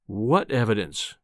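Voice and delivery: slow, low, controlled threat; menacing calm. A narrator's reading. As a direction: challenge him with ominous composure. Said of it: "He spoke with a menacing calm".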